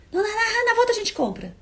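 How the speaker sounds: high, breezy brush-off, not even looking; dismissive brush-off. Retold or imitated. To a friend who wants coffee: dismissive high brush-off. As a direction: wave it away lightly in a high sing-song. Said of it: "Ele nem olhou pra mim".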